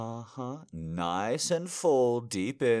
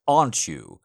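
repeated louder; 7 dB louder than usual. Acted. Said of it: "I said".

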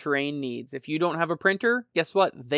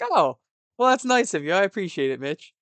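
much higher, louder mock-sweet thanks; sweetly touched; 4 semitones higher, 3 dB louder than usual. Host replaying his thanks to patron Mitch, sugary and high. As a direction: gush a little, half joking. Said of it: "And I was like".

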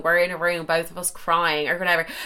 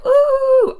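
teasing crowd ooh; 8 dB louder than usual. Retold or imitated. Friends teasing, walking in.

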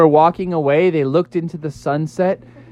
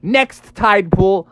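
unamused; 4 semitones higher, slower than usual. Acted. Frog annoyed at the prank.

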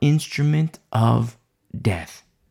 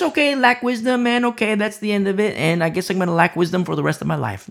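mock complacency; 3 semitones higher, faster than usual. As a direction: rattle it off like someone giving up too easily. Voices complacent person, then says No.

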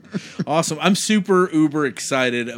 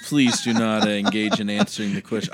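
mock stern. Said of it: "I'm joking".

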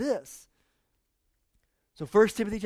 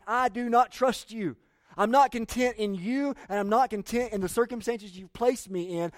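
voicing worry to God; 4 semitones higher than usual. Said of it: "looking at God and saying".

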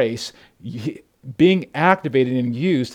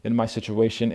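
hammed-up complaining believer; mock moan to the Lord about work; whining complaint; 3 semitones lower, 5 dB louder than usual. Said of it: "Because we often say".

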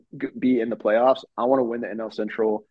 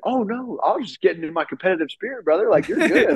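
mock Votto reassurance; 7 semitones higher than usual. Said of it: "He's like".

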